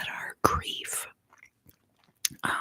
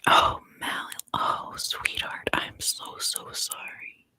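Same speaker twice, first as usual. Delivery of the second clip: tender comfort; slower than usual. Real, not acted. To a grieving viewer, tender whispered sympathy. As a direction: hold her gently with the words.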